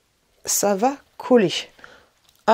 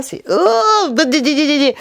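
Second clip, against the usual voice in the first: laughing yelp, much higher; giggling in discomfort; 6 semitones higher, 5 dB louder, slower than usual. Real, not acted. Pinched eye, laughing in discomfort.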